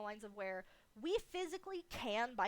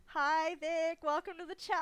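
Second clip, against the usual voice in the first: excited greeting; 5 semitones higher, 7 dB louder than usual. Real, not acted.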